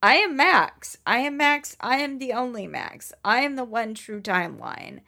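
self-declaring Max, building to a push; Max proclaiming. Acted. Player as Max claims the power, proclaiming. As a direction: declare yourself the one true Max. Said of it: "Max is like".

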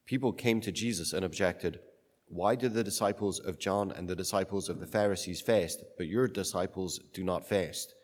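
solemn Gospel reading; cathedral echo. Acted. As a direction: read it like a liturgy.

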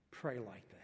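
soft unvoiced whispered command. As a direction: whisper it gently as Jesus. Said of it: "Jesus is saying".

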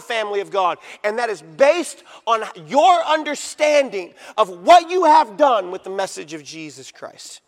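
emphatic, punched key words, rising in force; full-force preaching. Real, not acted. Preacher denouncing a false prophet to the congregation, forceful. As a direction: preach it hard, landing each word of the verdict.

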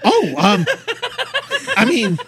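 high, loud flustered gnome; blustering nervous gnome. Acted.

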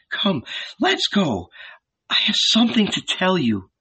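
high, measured motherly urging; coaxing older woman. A narrator's reading. Salome has something to tell Mary, coaxing.

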